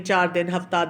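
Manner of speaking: normal talking voice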